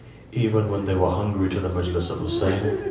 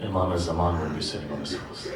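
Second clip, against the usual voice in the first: softer repeat, letting it sink in; hushed echo; 5 semitones lower, 7 dB quieter than usual. Shown as a demonstration. Preacher repeating the Imam's line to mourners, softly awed. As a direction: say it again softly, almost to yourself. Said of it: "repeated line, hushed".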